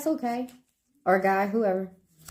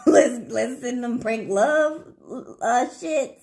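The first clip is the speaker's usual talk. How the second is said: laughing retelling; 3 semitones higher, slower than usual. Retold or imitated. Voicing mischievous twin friend.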